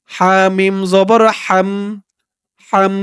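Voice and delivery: হাম said slowly with a thin h from the throat; throat h sound. Shown as a demonstration. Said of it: "হার আওয়াজটা গলার ভিতর থেকে চিকন হয়ে বের হবে". (হাম শব্দের হা গলার ভিতর থেকে চিকন করে)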